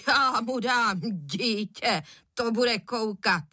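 slow, grumbling threat; a father fuming over his son; angry father. A narrator's reading. Father fuming at breakfast about his son, slow angry grumble. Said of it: "vztekle roztrhl krajíc".

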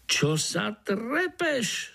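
slow, high Slovak čo sa trepeš. A narrator's reading. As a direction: scold lazily in Slovak. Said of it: "spustil zase po svém dunajský komár".

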